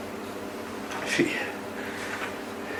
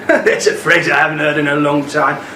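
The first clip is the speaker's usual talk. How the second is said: amused; 3 semitones lower than usual. Acted. Amused by the Aussie slang.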